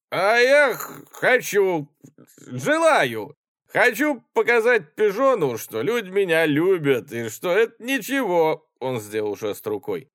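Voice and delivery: high, loud tipsy boasting; drunken joy. Acted. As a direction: grin through the boasting. Drunk officer boasting joyfully. (радостно хвастается пьяный офицер)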